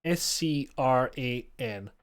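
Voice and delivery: "S C R A N" spelled letter by letter, slowly. Shown as a demonstration. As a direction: spell "S C R A N" out one letter at a time.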